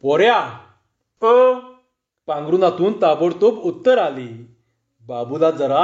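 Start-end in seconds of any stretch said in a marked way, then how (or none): 0.0-0.5 a mildly raised harsh call; harsh shout. Acted. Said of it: "तो कर्कशपणाने ओरडला". 1.2-1.5 high, loud answering call; calling back. Acted. Assistant answers from under sheet.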